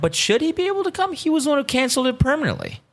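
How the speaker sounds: high-pitched, exasperated protest; indignant complaint. Retold or imitated. Podcaster griping about the friend who canceled, indignant. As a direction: protest the nerve of it.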